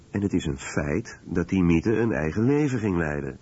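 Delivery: normal talking voice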